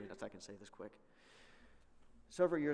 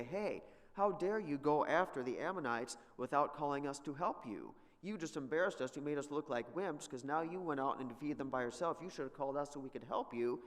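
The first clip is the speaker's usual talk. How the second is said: raised, mock-offended protest; indignant complaint; 3 semitones higher, 4 dB louder than usual. Ephraimites complain to Jephthah about being left out, indignant. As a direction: scold them like a snubbed ally.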